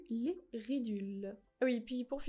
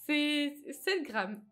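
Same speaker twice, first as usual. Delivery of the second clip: slow and louder, mock indignation; exaggerated outrage; 4 semitones higher, 6 dB louder, much slower than usual. Real, not acted. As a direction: drag out the outrage over the tiny amount. (indignation exagérée, lente et plus forte)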